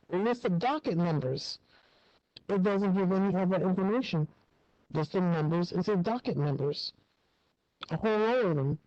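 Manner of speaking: speaking through a hand over the mouth; muffled, covered-mouth speech. Real, not acted. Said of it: "You sound a little muffled".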